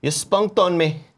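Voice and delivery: slow Cockney man line; Cockney accent. Retold or imitated. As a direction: drawl it in Cockney. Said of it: "impersonating the man's voice".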